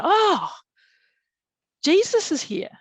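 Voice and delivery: high, loud gasp of wonder; reliving an overwhelming arrival; awed exclamation. Retold or imitated. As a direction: cry out in amazement, then announce it. Retold awed announcement to husband.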